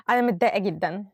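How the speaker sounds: a touch of sadness, without the laugh; mildly upset. Shown as a demonstration. Teacher retries the example sounding mildly upset. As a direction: say it straight, a little down. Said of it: "I cannot say it with a smiling face".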